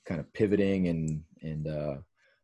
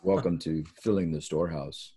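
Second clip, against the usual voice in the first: understated radio host welcome; a modest attempt at radio voice; 2 semitones lower than usual. Shown as a demonstration. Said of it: "Let me hear your radio voice".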